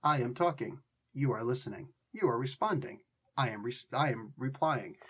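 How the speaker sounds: robotic, evenly spaced short sentences; wooden, word-by-word delivery; stilted uncontracted speech. Shown as a demonstration. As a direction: recite each sentence stiffly, in a low voice. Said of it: "Less like".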